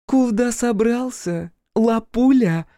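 put-on high, slow, loud drunken coo. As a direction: block his way with a tipsy leer. Drunk daughter blocks the way.

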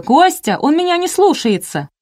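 выше и громче, почти крик; позови снова, сильнее и выше; отчаянный зов. A narrator's reading. Зовёт мужа на помощь. (жена отчаянно зовёт мужа, высоко)

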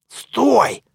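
high sharp stop call. Acted. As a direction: catch him before he leaves. Mummy stops hero at gate.

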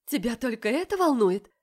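sharp, hurt reproach; a hurt woman snapping at her lover; angry. Acted. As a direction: throw the question at him. Heroine confronts the man angrily.

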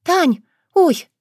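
sudden high startled gasp of a name; startled cry. A narrator's reading. Girl startled at meeting her sister, high yelp.

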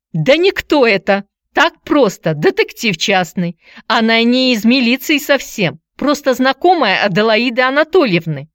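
high, loud flustered patter; hurried gabble. A narrator's reading. Aunt explains away the visitor to nephew, gabbling. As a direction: rush out a dismissive explanation. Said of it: "зачастила тётка".

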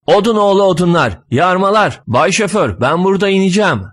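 angry cursing. Acted. Insults fly inside the shared taxi, angry cursing. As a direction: hurl insults in exasperation. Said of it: "Büsbütün kızan şoför söylenip duruyor".

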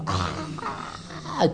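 breathy, held-back mock shriek; long soft imitation scream; imitated demonic scream. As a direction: mimic a screaming child without full voice. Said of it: "gritando como un demonio".

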